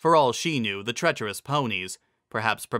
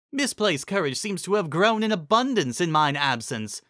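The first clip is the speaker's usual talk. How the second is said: lofty observation; 6 semitones higher than usual. Acted. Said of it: "she observed".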